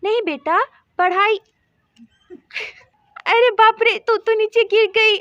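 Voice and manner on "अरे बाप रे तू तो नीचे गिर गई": startled cry. Acted. Mother seeing her daughter tumble off the cot, startled cry. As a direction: gasp at the fall.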